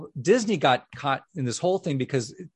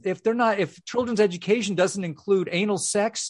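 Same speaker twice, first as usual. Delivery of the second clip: higher-pitched mock panic; mock outrage; 5 semitones higher than usual. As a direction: imitate critics overreacting in alarm. Mocking critics' hysterical overreaction.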